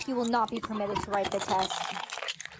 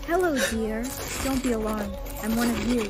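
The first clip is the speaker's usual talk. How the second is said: reassuring. Acted. Calming frightened newcomer.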